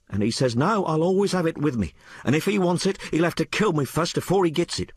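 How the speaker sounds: put-on high-pitched, colloquial working girl; working-class maid Sal. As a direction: tell it as an uneducated maid confiding in her mistress. Sal quoting a man.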